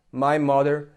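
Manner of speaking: "my father" with a full clear "my"; textbook "my". Shown as a demonstration. Brazilian learner demonstrating the taught form, clear "my". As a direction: say "my" as in the schoolbook. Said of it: "we have been taught to say".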